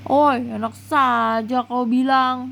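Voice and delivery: mock-offended, slow "Oi"; a friend protesting the insult; slow, drawn-out indignant retort; indignant call-out. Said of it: "Orus berseru, tidak terima dia".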